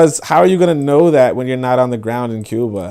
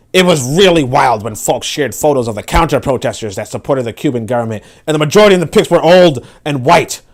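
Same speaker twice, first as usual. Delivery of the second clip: angry reading; 2 semitones higher, 3 dB louder than usual. Acted. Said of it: "That's a good angry reading".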